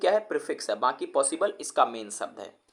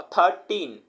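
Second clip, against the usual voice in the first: "थर्टीन" slowly split, थर-टीन; slow two-syllable demonstration of "थर्टीन"; broken into syllables; 2 semitones higher, 3 dB louder, much slower than usual. Shown as a demonstration. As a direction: say "थर्टीन" in two drawn-out beats. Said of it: "तोड़ के बोल रहे हैं".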